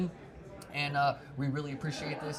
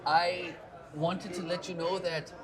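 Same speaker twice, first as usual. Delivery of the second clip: shaky attempt at a Scottish accent drifting toward Pakistani; 3 semitones higher than usual. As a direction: put on a Scottish accent and miss slightly. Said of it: "help me with my Scottish accent".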